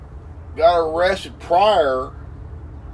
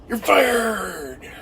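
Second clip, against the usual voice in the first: mocking taunt; 3 semitones higher than usual. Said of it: "making fun of him".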